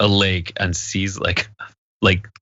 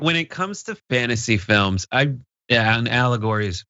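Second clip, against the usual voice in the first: Sean Connery impression. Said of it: "He's like".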